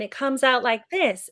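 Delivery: demonstrating a forward American placement; American accent demo. Shown as a demonstration. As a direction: put on an American accent, mid-mouth. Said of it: "But American, it's more in the middle".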